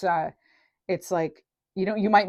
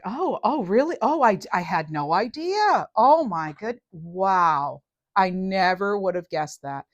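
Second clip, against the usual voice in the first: fake surprise. Playing dumb to someone who tries to manipulate her, mock surprised. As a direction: play dumb with a put-on gasp. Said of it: "So there's a little acting".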